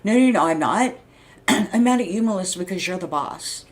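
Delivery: mildly heated, emphatic denial; angry retort. Retold or imitated. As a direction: push back angrily as in the retold argument. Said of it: "well, angrily".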